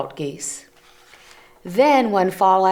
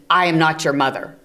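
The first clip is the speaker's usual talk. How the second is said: stern; 2 semitones lower, 4 dB louder, faster than usual. Acted. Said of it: "Bruce was very stern".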